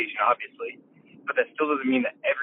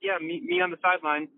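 sideline heckler; 5 semitones higher than usual. Retold or imitated. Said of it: "Just 'cause somebody's like".

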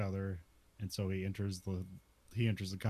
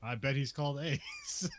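laughing shout; 4 semitones higher than usual. Retold or imitated. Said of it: "you're like".

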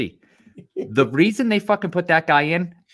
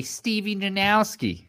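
drawn-out name; 6 semitones higher, 5 dB quieter, slower than usual. Retold or imitated. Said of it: "I always say".

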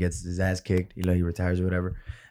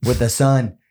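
put-on failed Irish accent; 3 dB louder, slower than usual. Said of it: "I can't do his fucking skin, uh, accent skin".

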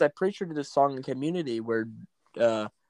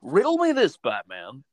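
John Oliver as the Riddler; 4 semitones lower than usual. Acted. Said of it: "John Oliver as the Riddler".

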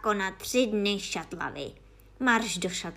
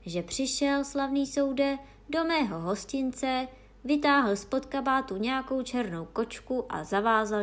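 higher-pitched, timid testimony; 6 semitones higher, 4 dB louder than usual. A narrator's reading. Innkeeper testifies to the honourable court, timidly. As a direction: testify meekly in a raised voice. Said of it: "povídal Hostinský bázlivě".

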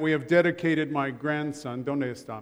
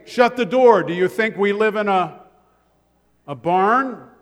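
loud, higher mock scolding about the door; dad snapping; 4 semitones higher, 7 dB louder than usual. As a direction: bark it like an annoyed father. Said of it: "my dad would say".

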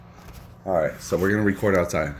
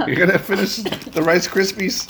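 surprised; 9 semitones higher than usual. Real, not acted. Surprised at last piece.

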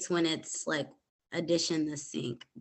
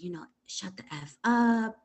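whispered insult; 3 semitones higher than usual. Retold or imitated. Brother quoted telling her off.

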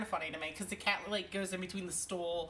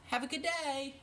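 put-on toddler voice; 6 semitones higher than usual. Mother imitates her toddler son.

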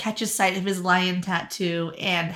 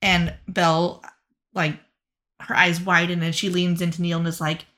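lightly put-on accent sliding from Australian to Irish; drifting fake accent; 3 semitones lower than usual. Lumiere boasting to Belle and Neil, mild Australian-to-Irish accent. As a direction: start Australian, end Irish, loosely. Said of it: "started Australian and ended Irish".

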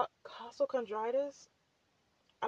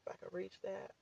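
whispering; 5 dB quieter, faster than usual. Real, not acted. Whispered aside.

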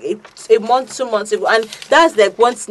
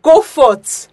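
slow, solemn preacher voice; a lightly hammed-up pastor blessing; mock pastor; 2 semitones higher, 5 dB louder, much slower than usual. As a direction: intone it like a pastor giving orders. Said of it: "Pastor now told him".

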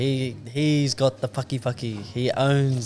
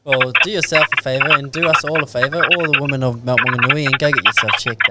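raised voice telling him to get checked; loud mock lecture; 3 semitones higher, 8 dB louder than usual. Real, not acted.

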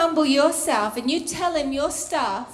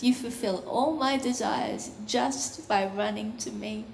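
God reassuring; 5 semitones lower, 4 dB quieter than usual. Acted. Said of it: "and he comes and says".

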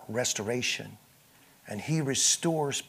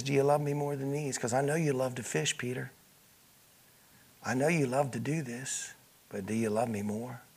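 gentle pleading; 6 dB quieter than usual. Acted. Jesus pleading with Peter.

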